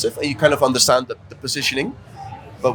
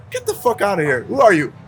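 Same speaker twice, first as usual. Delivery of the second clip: higher, mock indignant retort; imitating angry girls; 5 semitones higher than usual. Offended girls chase him away, higher mock anger. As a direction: shoo him off in a hammed-up huff. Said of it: "they got really mad".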